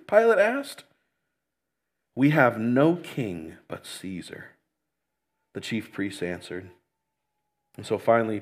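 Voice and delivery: dramatic Bible reading with voiced quotes; scripture reading. Shown as a demonstration. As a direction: read the passage to the congregation, raising the quoted lines. Reads John 18-19 aloud.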